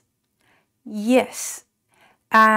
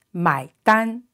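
买单 said quicker; faster; 2 semitones higher than usual. Shown as a demonstration. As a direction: speed up 买单.

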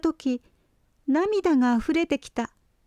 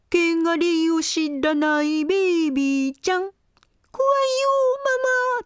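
teasing taunt; 2 semitones higher than usual. Acted. Older lamb teases the little one.

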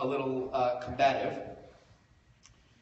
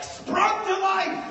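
higher, slow, with a laugh; dramatic burst; 6 dB louder, slower than usual. A narrator's reading. Comic telling how the rage sprang back, dramatic. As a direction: swell it up big. Climax of narration.

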